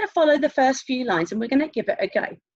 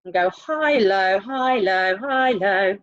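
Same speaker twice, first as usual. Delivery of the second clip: HIGH lifted, LOW dropped, like a seesaw; sing-song high-low alternation; alternating high and low; 3 semitones lower, slower than usual. Shown as a demonstration. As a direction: swing the pitch up on HIGH, down on LOW. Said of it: "we're gonna start low".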